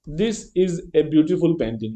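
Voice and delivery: each word read out very slowly; slow example reading. Shown as a demonstration. Teacher reading the example to students, very slow. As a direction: dictate it slowly to the class.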